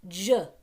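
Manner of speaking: "J" said as juh; soft G. Shown as a demonstration. Teacher contrasting the two sounds of G, soft G. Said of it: "That's the I".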